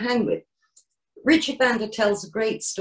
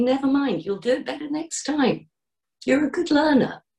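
higher, gently encouraging; kind inner voice; 6 semitones higher than usual. Shown as a demonstration. Helpful inner voice after a setback, kindly encouraging. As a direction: reassure yourself like a loving friend. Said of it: "the helpful voice in my head, the loving one".

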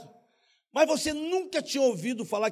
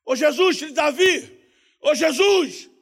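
loud, higher shouts to Jesus; crying out; 5 semitones higher, 9 dB louder, slower than usual. Acted. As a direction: call out like the blind man begging to be heard. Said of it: "Quando ele começou a gritar".

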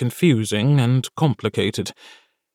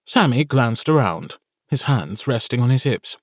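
ordinary delivery, nothing marked

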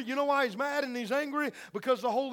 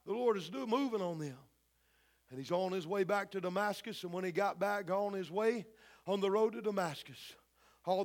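hushed storytelling; 5 semitones lower, 8 dB quieter than usual. A narrator's reading. Preacher softly recounts Saul's blinding on the road. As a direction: tell it like a secret moment.

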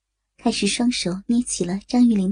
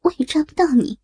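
higher, distressed begging; anguished, pitched-up submission; humiliated pleading; 4 semitones higher, 3 dB louder than usual. Acted. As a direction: give in and beg, growing more urgent. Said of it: "曲小曼屈辱地说".

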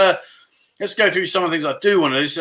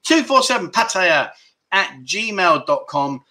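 slow dictation; slower than usual. Shown as a demonstration. Spelling out email address.

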